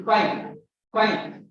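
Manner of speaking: a lip-to-teeth F opening 'fine'; correct English F. Shown as a demonstration. Teacher modelling the correct word, English F. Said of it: "That is the correct pronunciation".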